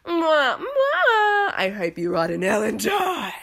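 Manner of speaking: kissy air-kisses into a venomous wish; sugary kisses, then drop the curse; passive-aggressive. Retold or imitated. Vlogger voicing what catty women really mean, passive-aggressive. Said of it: "is what they're really saying".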